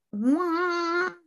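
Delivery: high, stunned disbelief; shocked what. Retold or imitated. Son hearing his father died, stunned disbelief. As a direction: gasp it out in shock. Stunned reaction to death news.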